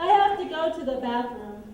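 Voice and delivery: whiny voice. Shown as a demonstration. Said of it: "in whiny voices".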